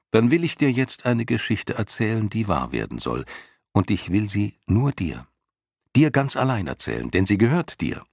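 leicht höhere Jungenstimme, feierlich versprechend; Bastian, feierlich. Acted. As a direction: ein Geschenk ankündigen, gegen Ende schneller. Bastian verspricht eine Geschichte. (Bastian verspricht Jicher eine Geschichte, feierlich)

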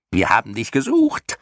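high-pitched creature cry; mild screech. A narrator's reading. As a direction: screech it lightly as a clown creature. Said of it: "kreischten die Schlamuffen". (leicht gekreischt, mit hoher Stimme)

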